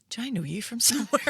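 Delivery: fast, half-laughing imitation of the doctor; laughing through the doctor's sudden question. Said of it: "she just went".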